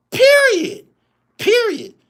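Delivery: period shouted high and loud; emphatic shout. Real, not acted. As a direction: yell the final word. Repeated verdict word, shouted.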